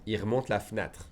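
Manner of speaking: quick everyday French, E in fenêtre dropped; fast conversational pace. Shown as a demonstration. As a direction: rattle it off as natives do. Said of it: "if I said fast".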